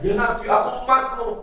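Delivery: high, loud cry to the Prophet; a pleading high call from the crowd. Pretend. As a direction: call out loudly and high for his attention. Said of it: "Kita mau teriak-teriak".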